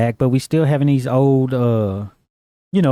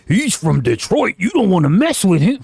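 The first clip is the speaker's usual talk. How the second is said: mock fearful warning; 6 semitones higher than usual. Co-host mimics people judging anyone from Detroit, mock-ominous. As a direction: warn them as an awed onlooker would.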